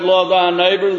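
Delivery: the law's words proclaimed high and loud; preached commandment. Acted. Preacher quoting the law, loud proclamation. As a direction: declare the commandment with force. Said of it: "The law said".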